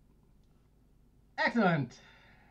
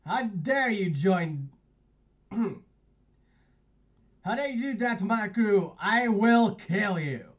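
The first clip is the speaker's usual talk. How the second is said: shaking with anger; 4 dB louder than usual. Pretend. Voicing angry character at enemy.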